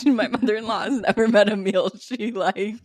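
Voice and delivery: reading it back through laughter; laughing reread. Real, not acted. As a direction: say it while cracking up. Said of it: "That was so funny to word it that way".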